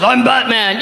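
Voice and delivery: lightly voiced Batman shouting from the cat; pretend Batman cat.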